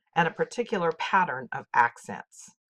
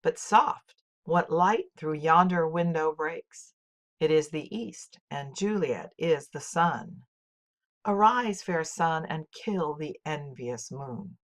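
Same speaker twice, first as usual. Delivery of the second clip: dramatic recitation. Shown as a demonstration. Teacher reading Romeo's lines to show blank verse. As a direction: declaim with a clear iambic beat. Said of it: "Can you detect the iambs in these famous lines".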